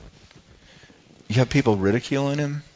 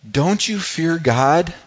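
slow, higher-pitched reproving question; rebuke; 5 semitones higher, much slower than usual. Acted. Criminal rebuking the other criminal, reproving. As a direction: reprove him with slow, measured weight. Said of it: "to rebuke this other guy".

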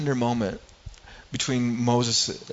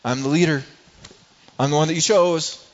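proud; 5 dB louder than usual. Retold or imitated. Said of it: "Moses could have said".

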